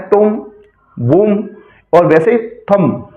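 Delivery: "तुम", "वुम", "थंब" each ending on m; silent b examples. Shown as a demonstration. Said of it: "बी नहीं पढ़ना है".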